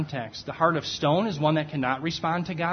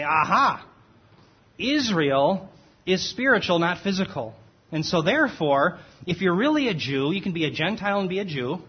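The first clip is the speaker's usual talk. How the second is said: lightly hammed-up gotcha voice, a bit louder; mock triumphant opponent; 2 semitones higher, 3 dB louder than usual. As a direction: parody a smug rival's argument. Mocking the opposing theologians' claim.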